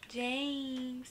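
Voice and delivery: JAMES drawn out as others say it; imitated pronunciation. Vlogger showing how they say her name, JAMES drawn out. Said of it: "that's how they say it".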